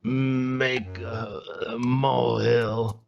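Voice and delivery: put-on very slow drunken slurring; slurred drunk. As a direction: drag the words, drunk. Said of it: "You're slurring your words".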